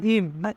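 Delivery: ইম with final b turned to m; nasalised final consonant. Shown as a demonstration. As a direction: say ইম ending on closed-lip m. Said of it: "বিয়োগের উচ্চারণ মিউমের মতো হবে". (ইম, ব বদলে ম ধ্বনি)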